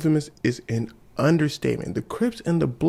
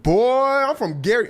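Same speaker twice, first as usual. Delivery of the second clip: the speaker's put-on deep voice, higher and louder; 8 semitones higher, 4 dB louder than usual. The speaker tells the label guys where he's from, mock deep voice. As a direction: claim your hometown like a tough guy. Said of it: "a singer's voice can get pretty deep".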